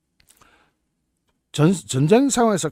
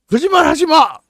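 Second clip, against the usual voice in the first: higher, louder mock interrogator; mock command; 7 semitones higher, 5 dB louder than usual. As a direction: snap it at a prisoner.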